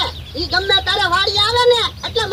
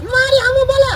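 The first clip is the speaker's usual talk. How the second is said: higher, louder furious retort; angry outburst; 7 semitones higher, 3 dB louder, faster than usual. Acted. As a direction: boss outraged at backtalk. Boss quarrels with servant. (ગુસ્સાભર્યો જવાબ)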